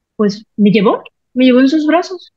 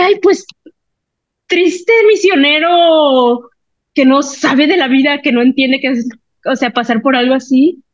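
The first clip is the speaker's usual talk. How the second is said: mocking pity; 3 semitones higher than usual. Mocking the missionary to herself.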